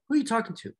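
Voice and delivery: high-pitched, indignant mock demand; imitated angry coach. Coach confronting his own fighter, imitated angry outburst. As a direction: act out a coach demanding respect, voice shooting up. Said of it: "Why is he so angry".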